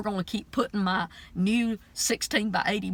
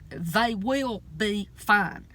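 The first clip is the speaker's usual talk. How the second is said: powerful decree; 4 dB louder, slower than usual. Retold or imitated. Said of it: "she is just so powerful when she started decreeing".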